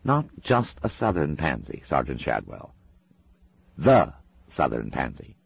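lightly voiced, prim English gentleman; a hint of an amused angel speaking through her; another voice. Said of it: "a voice said".

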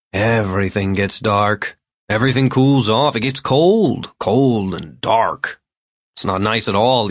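a hint of a drunk old man's whine; old drunk explaining his muddy trip; lightly voiced plaintive Vern. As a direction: complain plaintively about the dark. Vern complaining about darkness.

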